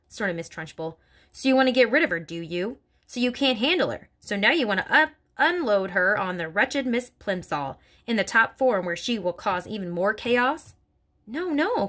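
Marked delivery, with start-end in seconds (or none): 1.3-10.7 headmistress accusing. Acted. 11.3-11.9 much higher pleading cry; cried out. Acted. Miss Honey denying the plot, high cry. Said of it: "cried Miss Honey".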